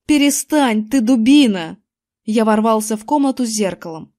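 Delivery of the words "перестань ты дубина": angry scolding. A narrator's reading. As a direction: snap at your foolish brother. Angry brother scolds the winner. (сердитый окрик)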